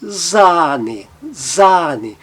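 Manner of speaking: Sahne with a long drawn A; long A demo. Shown as a demonstration. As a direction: stretch the A in Sahne. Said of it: "ele tem um som longo". (A longo em Sahne)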